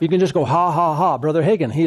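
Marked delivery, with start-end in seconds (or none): 0.4-1.2 deliberate spoken ha-ha-ha; put-on, willed laugh; faith laugh. Shown as a demonstration. Preacher showing how to do a faith laugh, deliberate laugh. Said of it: "you can just do a faith laugh".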